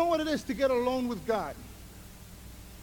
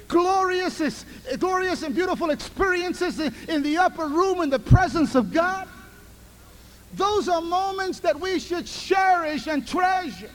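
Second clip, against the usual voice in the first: preaching at full force; 5 semitones higher, 5 dB louder than usual. Acted. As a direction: lift the room with glory. Preaching climax.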